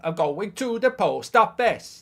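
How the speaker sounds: slow, high, sing-song Welsh attempt; bad Welsh accent. Shown as a demonstration. Streamer practising Welsh about the post office, badly faked accent. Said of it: "That's rubbish".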